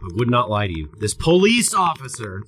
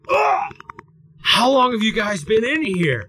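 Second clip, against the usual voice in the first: disgusted cop; 9 semitones higher than usual. Retold or imitated. Cop sniffing the tea jug, disgusted high cry. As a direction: recoil from the smell and shout it. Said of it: "he goes".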